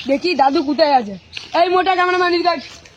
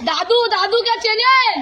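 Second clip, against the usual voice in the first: to someone hard of hearing; 4 semitones higher, much slower than usual. Acted. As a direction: spell it out slowly for a deaf ear. Deaf old man keeps asking কি. (কানে কম শোনা লোককে ধীরে জোরে বলা)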